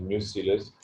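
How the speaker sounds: न्यूसिलस said as nyoo-si-lus, short i in the middle; correct pronunciation. Shown as a demonstration. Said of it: "मैंने इसका लफ्ज न्यूसिलस पढ़ा है".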